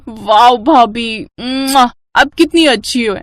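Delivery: slow, savoring, stretched wow; drawn-out wow. Acted. Sister-in-law savoring the food, stretched-out wow. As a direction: melt over the dish.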